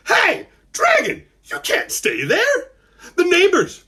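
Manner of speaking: put-on very high, slow boyish call-out; loud voice. A narrator's reading. Malcolm warning the dragon from the porch, loud voice. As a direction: call out so the dragon hears you. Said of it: "he used his loud voice".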